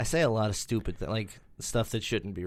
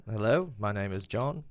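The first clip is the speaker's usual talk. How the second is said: light Liverpool accent as a famous singer; a gentle Liverpool singer greeting; requested Liverpool singer impression for friends. Shown as a demonstration. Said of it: "my singer impersonation".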